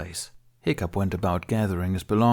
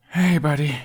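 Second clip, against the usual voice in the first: relieved; 8 semitones higher, 6 dB louder than usual. A narrator's reading. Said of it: "relief heavy in his voice".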